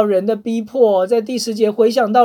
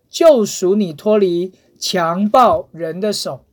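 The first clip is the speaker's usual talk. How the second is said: scripture reading; 2 semitones lower than usual. Acted. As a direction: read it as holy words to the congregation. Reads scripture passage aloud.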